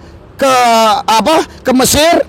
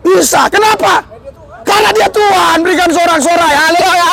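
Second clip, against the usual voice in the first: preaching proclamation; 5 semitones higher than usual. Real, not acted. Preacher proclaims Jesus is Lord.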